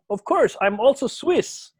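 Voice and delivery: proud Swiss. Retold or imitated. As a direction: say it with mock pride. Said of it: "Sabi niya sa akin".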